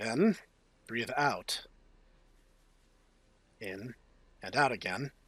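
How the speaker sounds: lightly dramatic first-person reading; story narration. A narrator's reading. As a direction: read it out like a tense novel. Reads the game text aloud.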